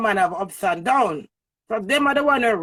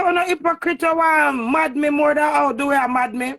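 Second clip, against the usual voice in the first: mock shouting quote; 5 semitones higher, 4 dB louder than usual. Mocking what they say about her.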